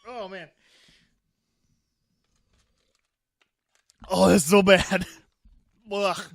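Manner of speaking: talking past candy stuck to teeth; chewing sticky jelly bean. Real, not acted. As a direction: chew and talk with mouth full. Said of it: "it stuck to my teeth".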